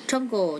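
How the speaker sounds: "jungle" with JUN stressed; stress on first syllable. Shown as a demonstration. Teacher showing word stress to students, "jungle" stressed at the start. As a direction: lean on the opening syllable of "jungle". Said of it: "chúng ta nhấn âm đầu tiên".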